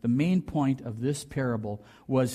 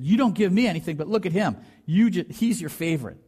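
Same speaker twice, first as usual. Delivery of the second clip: mock resentful accusation; 4 semitones higher, 4 dB louder than usual. Elder son accusing father.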